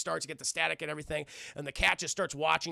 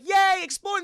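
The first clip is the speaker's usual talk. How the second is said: high, loud gleeful cheer; hammed-up cheer; 10 dB louder than usual. Woman thrilled to go exploring, high mock cheer.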